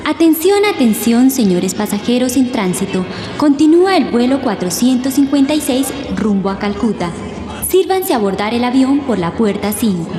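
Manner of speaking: PA system call, rising atención; airport announcement. Acted. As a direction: loudspeaker flight call.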